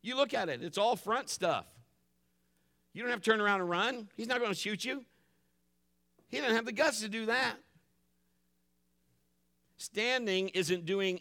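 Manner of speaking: insistent pulpit delivery; fired-up preaching. Real, not acted. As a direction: preach with force, urging them on. Preacher building exhortation.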